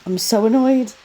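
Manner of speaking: annoyed outburst. Real, not acted. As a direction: burst out in annoyance.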